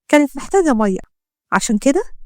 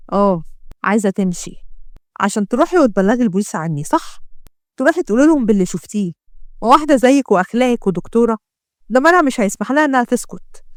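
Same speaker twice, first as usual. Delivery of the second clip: suspicious gangster. Acted. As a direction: taunt her with what she saw. Ahmed interrogates her.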